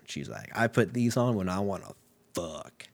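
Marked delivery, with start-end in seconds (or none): 2.3-2.9 mock-sultry deep voice; comically deep, hushed punchline; suddenly deep voice. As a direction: drop low and soft on the word. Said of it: "Her voice gets real deep".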